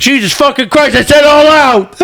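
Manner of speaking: high, pushy New York trainer; New York coach yelling. Pretend. Friend imitates New York gym coach, yelling. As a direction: shout at the runners like a Jersey coach. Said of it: "New York accent".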